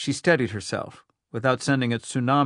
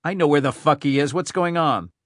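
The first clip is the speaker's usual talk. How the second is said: louder, cursing impatience; angry outburst; 3 semitones higher, 4 dB louder than usual. Acted. Rhyme snaps at his aide in frustration. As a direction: snap back in frustration.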